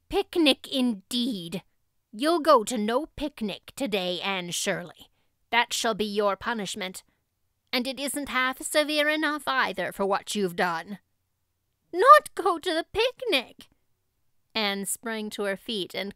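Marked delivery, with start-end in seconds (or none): 0.1-11.0 strict guardian denying the picnic, stern and loud; stern refusal. Acted. Marilla forbids the picnic. 11.9-13.7 much higher, loud cry of dismay; girl crying out that she must miss the picnic; shocked outcry. Acted.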